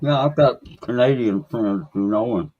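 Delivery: talking with a mouth full; words round a mouthful of food. Real, not acted. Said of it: "I'm sitting here with my mouth full".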